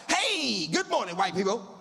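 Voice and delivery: a bright mock-friendly holler; mock cheerful yell. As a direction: call out cheerily to passing walkers. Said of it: "I yelled out".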